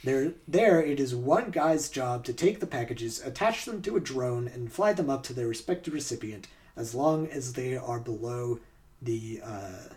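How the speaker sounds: measured scripted documentary read; story narration. Acted. Host reads a true-or-false story to players, narration.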